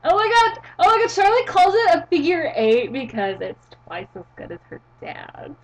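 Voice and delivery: high, loud gushing that drops to a hush; sorority girl. Acted. Sorority girl gossiping about Charlotte's move, mock gushing. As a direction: gush like a sorority girl, fading at the end. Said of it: "That is the word sorority".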